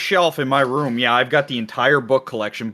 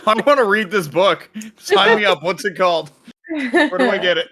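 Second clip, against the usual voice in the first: excited; 9 semitones higher, 3 dB louder than usual. Pretend. Mock eagerness for joke book.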